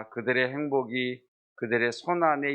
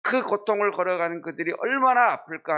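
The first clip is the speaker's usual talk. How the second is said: compassionate lament; 5 semitones higher than usual. Retold or imitated. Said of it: "하면서 고통당하는 자들을 보기".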